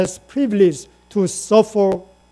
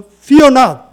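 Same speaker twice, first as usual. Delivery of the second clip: loud, higher call to repeat; leading congregation response; 5 semitones higher, 8 dB louder than usual. Real, not acted. Preacher to congregation saying it together, loud lead. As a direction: call it out for all to join. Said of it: "Shall we say together?".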